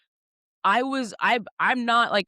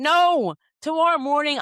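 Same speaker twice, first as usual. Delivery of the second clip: higher and louder refusal; emphatic no; 7 semitones higher, 5 dB louder than usual. Retold or imitated. Refusing the photographer's offer of tomorrow, loud emphatic no. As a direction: insist firmly, cutting her off. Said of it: "The photographer's like".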